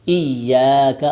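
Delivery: ایاک said loudly with a short kaf; corrected pronunciation. Shown as a demonstration. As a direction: punch out ایاک with a short crisp ending. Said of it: "نہیں کہیں گے".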